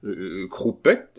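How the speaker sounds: slow, blank query; puzzled. Acted. Abbé not knowing the name, slow and puzzled. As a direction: say the unknown name uncertainly. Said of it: "d'un ton qui évidemment voulait dire".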